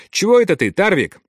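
puzzled question. A narrator's reading. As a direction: ask as if caught off guard. Soldier sees his comrade stagger. (удивлённый, недоумённый вопрос)

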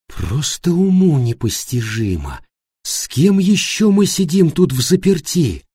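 slow, drawn-out dismay, rising into the question; appalled disbelief. Acted. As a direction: voice shocked incredulity slowly, without raising the volume. Annika appalled at the company she keeps. (медленное, потрясённое недоумение)

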